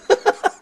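short real chuckle; brief laugh at own punchline. Real, not acted. Preacher amused by his bibimbap story, laughing.

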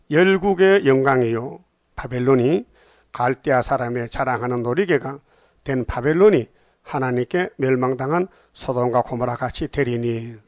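measured, declaimed Bible verse; scripture reading. Acted. Preacher reading Babylon's doom to the congregation, solemn declamation. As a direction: read the verse out with stretched phrase endings.

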